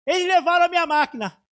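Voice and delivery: bold declaration. Retold or imitated. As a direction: cry it out as if inspired. Declaring boldly before the judge.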